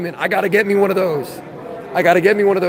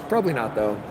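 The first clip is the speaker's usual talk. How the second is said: much lower, softer mock-serious mumble; deep goofy voice; 10 semitones lower, 8 dB quieter, faster than usual. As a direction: drop the voice way down, goofy. Repeated in a silly deep voice.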